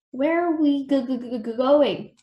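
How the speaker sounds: mildly scared, halting question; nervous stammer. A narrator's reading. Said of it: "whispered Billy".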